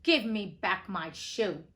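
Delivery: put-on little girl angrily demanding her shoe; angry demand. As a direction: plant your feet and demand it back. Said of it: "grew angry and said to the witch".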